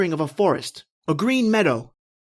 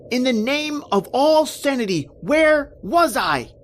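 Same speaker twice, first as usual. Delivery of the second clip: panicked; 5 semitones higher than usual. Acted. Panicked, lost in strange night.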